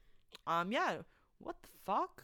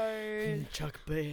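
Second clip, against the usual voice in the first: bad accent; 3 semitones higher, much slower than usual. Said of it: "That's such a bad accent".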